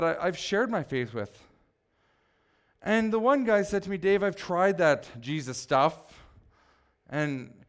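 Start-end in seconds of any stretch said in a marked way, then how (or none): 4.0-5.9 slow quote leaning on "Jesus"; stress on Jesus. Retold or imitated. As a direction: set "Jesus" apart with extra weight. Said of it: "he emphasized the word Jesus".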